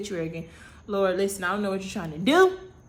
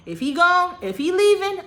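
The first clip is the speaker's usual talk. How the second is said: distraught outcry; 11 semitones higher, 8 dB louder than usual. Retold or imitated. Bargaining with the Lord.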